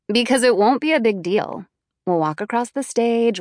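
projected, cutting through the silence; voice cutting through quiet. A narrator's reading. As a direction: speak up over the quiet. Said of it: "voice cutting through the quiet".

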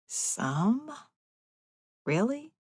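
can't believe what you heard; incredulous. A narrator's reading. Disbelief at faint praise.

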